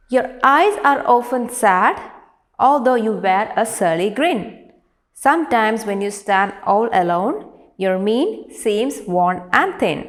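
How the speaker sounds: projected, deliberate verse reading; measured recital, drawing out the closing line; poem recitation. Acted. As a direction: read the poem out clearly to a class. Reads the next four lines.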